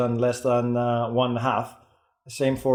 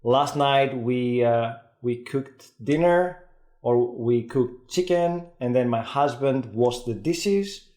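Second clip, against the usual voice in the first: slow example; slower than usual. Shown as a demonstration. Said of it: "she was saying".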